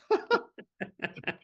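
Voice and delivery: high amused laugh. Real, not acted. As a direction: laugh at your own punchline. Laughs at own story.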